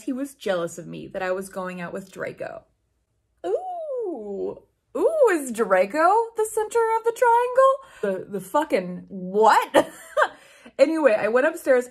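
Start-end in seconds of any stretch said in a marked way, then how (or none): 3.5-8.3 high, hammed-up gossip squeal; mock gossipy squeal. Reader mocking the love triangle, high squeal. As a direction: squeal it like a nosy schoolgirl.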